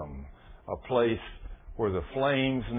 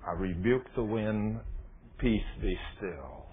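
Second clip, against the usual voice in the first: slow, softer, lower and steady; a hushed, slow rebuke to the wind; calm command; 3 semitones lower, 5 dB quieter, slower than usual. Acted. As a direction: still the storm with quiet authority. Jesus calming the storm.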